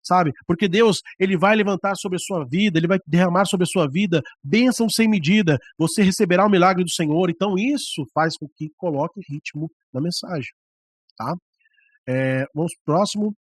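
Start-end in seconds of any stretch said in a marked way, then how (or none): 0.4-7.3 raised, driving preacher delivery; impassioned preaching. Shown as a demonstration. Preacher promising a blessing to the congregation, impassioned. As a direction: preach it with rising intensity and rhythm. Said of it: "se você tá falando de algo muito".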